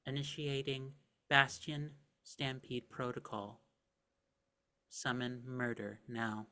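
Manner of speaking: flat mechanical robot voice. Acted. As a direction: announce it like a cold machine. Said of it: "speaking again in, like, a robotic sort of voice".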